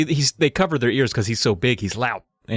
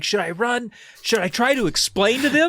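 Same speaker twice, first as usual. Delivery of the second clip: mock panic; 10 semitones higher than usual. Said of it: "he's like".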